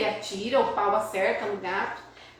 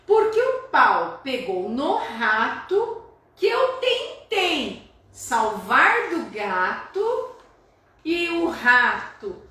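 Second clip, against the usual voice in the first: slow poem reading; 3 dB louder, much slower than usual. Shown as a demonstration. Teacher reads the poet's lines slowly to the class. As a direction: read the poem slowly, each phrase weighed. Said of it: "Olha agora a explicação do José Paulo Paes".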